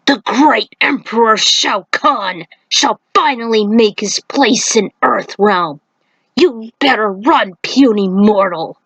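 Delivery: a hint of a slow, haughty beast; understated monster gloat; lightly voiced menacing centaur. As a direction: threaten the puny human, unhurried.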